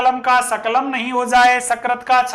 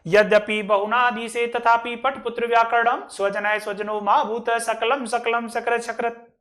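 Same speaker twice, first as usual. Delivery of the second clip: measured, level-toned shloka recital; Sanskrit verse recitation. Shown as a demonstration. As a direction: recite the verse line by line like a teacher. Recites the whole verse again.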